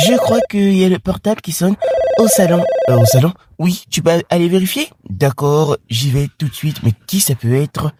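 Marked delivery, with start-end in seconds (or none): 5.1-7.9 lightly lowered dad voice; a hint of a puzzled father. Father wondering who is calling, lightly lowered voice.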